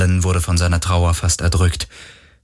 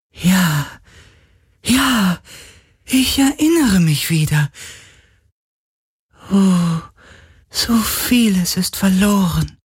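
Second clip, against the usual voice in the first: high, airy voice of a ghost remembering; a lost spirit grasping at memories; high wistful spirit; 12 semitones higher than usual. A narrator's reading. Spirit recalling its past to Galen, high and wistful.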